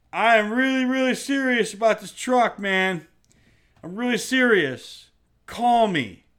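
mocking "really serious" caller; mock earnest buyer. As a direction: plead like an overeager buyer. Mimics late-night texting buyer.

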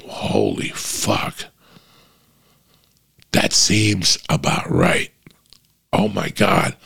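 slow, hushed "taking it in" voice; breathy, drawn-out murmur of realization; retold stunned reaction. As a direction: replay the moment it hit, slow and half-whispered. Retelling his stunned first reaction.

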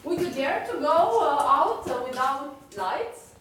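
high voice breaking with tears; real tears, pushing the words out; crying. Real, not acted. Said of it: "Sorry, I'm crying".

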